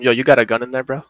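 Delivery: mock buddy-to-buddy question, at everyday pitch; casual blunt asking. Agent asking a passenger about a gun, casually blunt. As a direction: ask it straight, like to a pal. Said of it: "if the passenger's brown, I'm asking".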